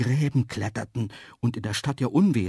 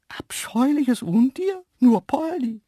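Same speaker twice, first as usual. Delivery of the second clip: very high, loud cartoon animal voice; indignant antelope; 7 dB louder, slower than usual. Antelope defending Poldi from outside, high indignant voice. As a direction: echo the insult high and drawn out.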